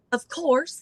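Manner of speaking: a touch of Southern lilt; Southern drawl. Retold or imitated. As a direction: echo the Southern belle. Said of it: "to hear that Southern drawl".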